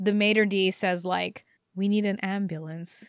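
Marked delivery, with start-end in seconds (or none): 1.7-3.1 put-on very calm voice, quieter. Retelling what the maître d' said after a waiter collapsed, retelling a very calm voice. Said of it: "in a very calm voice".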